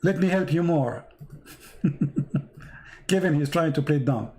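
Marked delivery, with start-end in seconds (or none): 1.8-2.4 brief low chuckle; a quick real chuckle to oneself; laugh. Real, not acted. Amused at Kevin playing dumb.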